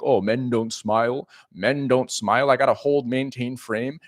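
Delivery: hint of a laid-back cool guy, drawn out; lightly put-on nonchalant persona; mock cool guy. Coach mimicking a guy too cool to smile, mock nonchalant. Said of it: "cool, laid back, nonchalant persona".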